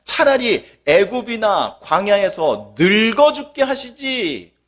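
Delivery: mock tearful lament, rising to a plea; hammed-up wailing complaint to God; wailing Israelites. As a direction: act out the people crying to God. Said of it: "라고 밤새 통곡을 합니다".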